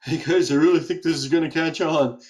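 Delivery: talking while spinning round; spinning in office chair. Acted. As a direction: voice swinging as the chair turns. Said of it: "His head's spinning on his shoulders".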